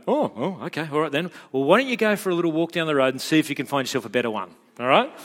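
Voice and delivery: fast, laughing sarcastic comeback; sarcastic dad. Retold or imitated. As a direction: toss it off with mock offended sarcasm. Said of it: "I'm so tempted to go".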